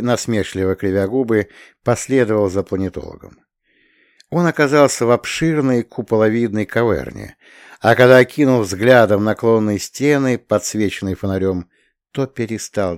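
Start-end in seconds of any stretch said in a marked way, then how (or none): none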